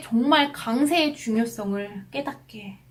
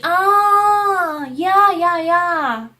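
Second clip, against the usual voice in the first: loud, high, drawn-out ah of realisation; sudden recognition; 6 semitones higher, 8 dB louder, much slower than usual. Retold or imitated. Woman stranger finally understanding the spelled name, loud recognition. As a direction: imitate a stranger who finally gets it, loudly. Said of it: "이러는 거예요".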